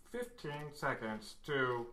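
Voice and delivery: slow tinny robot announcement. Retold or imitated. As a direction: countdown through a speaker. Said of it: "the tinny voice through the hatch".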